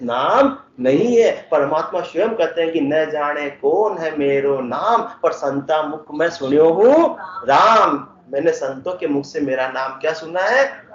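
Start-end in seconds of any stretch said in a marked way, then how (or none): 2.8-8.1 slow, drawn-out scripture couplet; verse recitation. Acted. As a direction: recite the couplet slowly, stretching the line ends. (धीमे, खींचकर दोहा पाठ)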